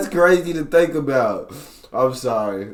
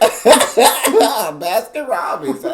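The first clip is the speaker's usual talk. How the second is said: high, slow words through laughter; cracking up while repeating the punchline; laughing repeat; 9 semitones higher, 8 dB louder, much slower than usual. Real, not acted. Friend laughing as he repeats the joke line.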